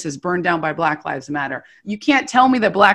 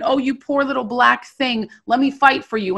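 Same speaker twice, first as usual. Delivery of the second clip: higher, imitated patronizing sympathy; mock pitying; 4 semitones higher than usual. White people patting her on the back, mock pitying. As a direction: imitate a condescending would-be rescuer. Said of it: "patting me on the back and saying".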